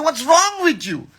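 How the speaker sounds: high-pitched exasperated scold, retold; snapping at a friend who said no. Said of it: "I used to scold them".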